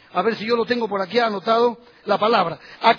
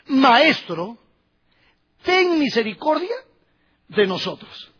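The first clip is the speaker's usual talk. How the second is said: pleading lepers' cry; slower than usual. Acted. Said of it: "Se dirigen a Jesús".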